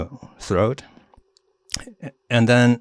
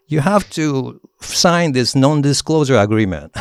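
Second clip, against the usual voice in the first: mock-serious demand; 7 semitones higher, 5 dB louder than usual. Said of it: "But I said".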